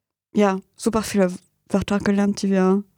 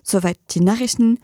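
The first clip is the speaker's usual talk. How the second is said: measured radio news delivery; formal German news anchor voice; news read. Acted. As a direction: read the bulletin crisply and evenly.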